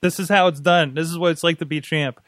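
a hint of a boastful father; lightly acted lecture to a daughter; mock wrestler dad. Host plays wrestler dad instructing Charlotte, lightly hammed-up. Voicing Ric Flair to daughter.

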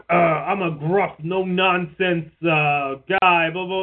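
lightly voiced no-nonsense cop; gruff cop. Actor playing a cop in a play, gruff. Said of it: "your character's like a cop".

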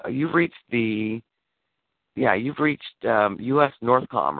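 slow, measured automated greeting; mock answering machine; recorded phone message voice. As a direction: read it like the recording on the line. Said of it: "and I'm like".

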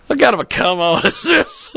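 quoting grandma through a laugh; laughing grandma quote. Retold or imitated. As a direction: chuckle your way through grandma's old line. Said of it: "that old phrase my grandmother used to say".

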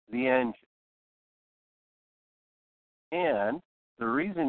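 measured delivery with long pauses after "car", "check out" and "engine"; deliberate pausing. Shown as a demonstration. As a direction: explain step by step, stopping before "the engine" and after it. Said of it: "I used pausing".

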